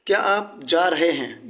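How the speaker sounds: slow question, pitch rising on क्या; asking tune. Shown as a demonstration. Teacher reading the example to students, as a question. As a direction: read क्या आप जा रहे हैं slowly as a real question. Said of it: "question पूछ रहा है".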